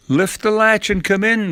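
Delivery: high-pitched grandma voice; unsuspecting grandma. A narrator's reading. Grandma answers her supposed granddaughter, unsuspecting. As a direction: invite the visitor in, suspecting nothing. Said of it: "Grandma said, unaware of anything amiss".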